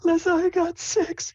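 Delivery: very high, drawn-out squeal of news; excited Sable. Acted. Sable shows Lissa her mushrooms, excited high voice. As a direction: announce it proudly in falsetto. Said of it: "She's like".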